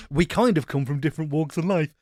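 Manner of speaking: lightly put-on voice with a wobbly lilt; half-hearted character voice; odd put-on voice. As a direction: slip briefly into a silly voice. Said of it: "I don't know what that voice was".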